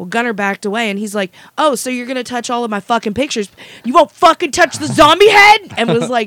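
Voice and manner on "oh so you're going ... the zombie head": loud, screaming rant. Retelling a convention guest yelling at a friend: imitating someone screaming. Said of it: "screaming at him".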